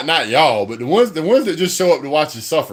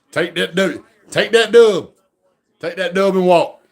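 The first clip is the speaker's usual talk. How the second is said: excited gloating; 5 semitones higher, 4 dB louder than usual. Real, not acted. Gloating over the win.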